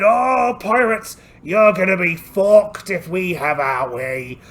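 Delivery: loud, slow pirate taunt. Acted. Pirate crew taunting the enemy pirates, loud slow jeer. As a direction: jeer across the water at them.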